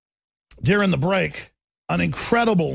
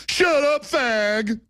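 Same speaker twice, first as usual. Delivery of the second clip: dopey jeering voice; 6 semitones higher, much slower than usual. Retold or imitated. Dumb crowd silencing him.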